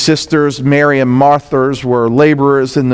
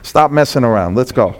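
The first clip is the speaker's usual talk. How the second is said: low, offhand and a bit softer, a chuckle in it; casual coaxing; 4 semitones lower, 4 dB quieter than usual. Retold or imitated. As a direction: nudge a friend who's stalling. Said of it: "Did he go".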